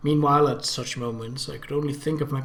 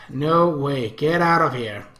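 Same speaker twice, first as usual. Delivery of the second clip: loud, defiant refusal; rebellious outburst; 5 dB louder, slower than usual. Acted. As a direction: push her out, loud and stubborn. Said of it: "I rebelled".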